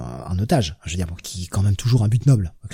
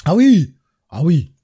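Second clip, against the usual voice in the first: surprised; 6 semitones higher, 6 dB louder, slower than usual. Real, not acted. Sudden recognition of the actor.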